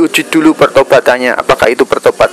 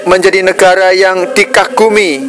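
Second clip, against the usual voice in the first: raised, higher-pitched rallying oratory; stirring patriotic speech; 5 semitones higher than usual. Real, not acted. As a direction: call the nation to rise, phrase by phrase.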